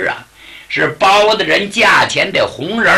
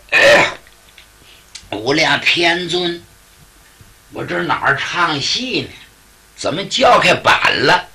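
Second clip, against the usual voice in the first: groggy little Taoist. Acted. The little Taoist wakes from the crying and teases, groggy. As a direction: yawn into it, then mock the noise.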